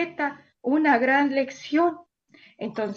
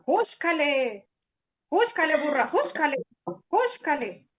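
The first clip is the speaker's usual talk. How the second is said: mild mock scolding. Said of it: "Y le pegaba".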